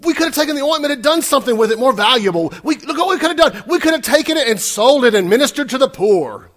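high, loud, fast outburst; indignant. Acted. Disciples argue the oil should help the poor, indignant. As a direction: rattle off a ranting complaint at full voice. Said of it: "said to themselves indignantly".

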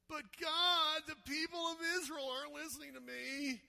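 high, loud whining plea; whiny complaint. Shown as a demonstration. Moses whining to God about the people. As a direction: whine it like a kid begging a parent. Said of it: "I think he probably said it like this".

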